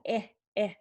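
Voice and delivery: "eh, eh" as two brief isolated "ih" sounds; short vowel demo. Shown as a demonstration. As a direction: repeat the short vowel twice, separately. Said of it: "the back of the tongue".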